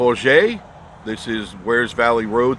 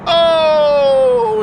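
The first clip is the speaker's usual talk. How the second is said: surprised squeal; 8 dB louder than usual. Acted. Mock surprise in intro.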